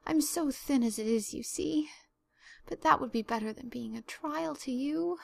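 put-on Anne, tearful girl. Anne's plaintive voice.

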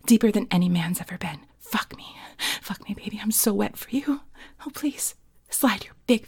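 breathy, half-whispered pleading; hushed, breathy seduction; sultry roleplay. Acted. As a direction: plead softly and intimately, heavy on breath. Performs an intimate roleplay.

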